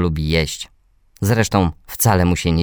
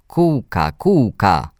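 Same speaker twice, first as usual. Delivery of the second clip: hoarse little brother calling; 3 semitones higher, much slower than usual. A narrator's reading. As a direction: call out like a small, hoarse boy. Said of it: "zawołał mój brat ochrypłym głosem".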